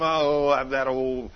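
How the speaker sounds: slow, grumbling mock gossip; imitated evil talk. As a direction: grumble about someone behind their back. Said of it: "you start talking evil about 'em".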